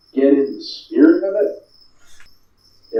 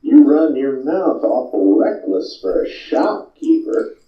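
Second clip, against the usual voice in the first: smirking gunslinger; slower than usual. Acted. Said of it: "he gets kind of this smirk".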